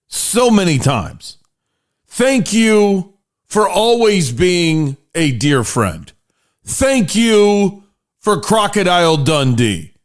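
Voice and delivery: slow, grave proclamation to a nation; solemn state speech, hammed up; mock formal address. Podcast host addressing Australia before the match, mock solemn.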